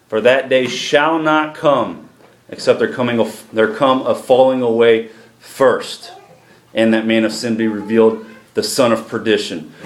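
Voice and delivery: measured, emphatic Bible reading; scripture reading. Acted. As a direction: read the verses out to the congregation. Reads scripture aloud to congregation.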